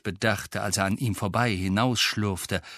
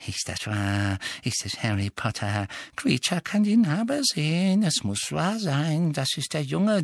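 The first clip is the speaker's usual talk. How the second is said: muttering elf; 8 semitones higher than usual. A narrator's reading. Elf wondering about the famous boy, muttering. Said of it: "murmelte Creature weiter".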